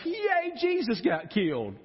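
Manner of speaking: sarcastic cheer at something awful; mock cheer. Preacher mocking a cheerful reaction to the cross, sarcastic. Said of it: "I can't get excited about".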